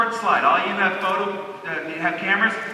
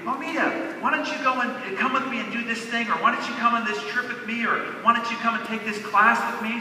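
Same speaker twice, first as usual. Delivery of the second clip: lightly voiced friend, pitched up; inviting friend; 4 semitones higher than usual. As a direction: coax her along like a friend. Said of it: "When a friend of hers would say".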